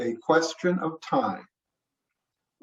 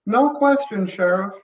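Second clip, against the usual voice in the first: higher, brisk woman's voice; medical examiner voice; 5 semitones higher, 5 dB louder than usual. Acted. Nancy the examiner speaks.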